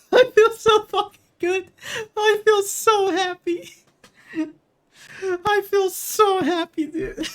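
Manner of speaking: very high, squeaky tearful joy; real elated sobbing; happy crying. Real, not acted. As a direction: laugh and cry out the triumph. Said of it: "I'm fucking crying".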